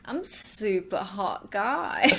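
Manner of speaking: slow, smug drag queen boast; impersonating Kimora. Pretend. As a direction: brag slowly like a vain diva. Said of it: "Go on, what you saying?".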